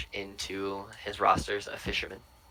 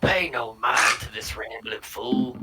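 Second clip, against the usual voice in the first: dismissive dwarf; 6 dB louder, slower than usual. Acted. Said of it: "leans over his shoulder and goes".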